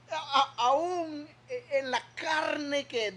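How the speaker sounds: choked up, stammering slowly; fighting back tears mid-sentence; voice breaking. Real, not acted. Preacher moved, voice breaking.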